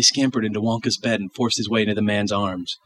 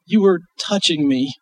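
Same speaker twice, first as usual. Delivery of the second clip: put-on child voice; 8 semitones higher, 4 dB louder than usual.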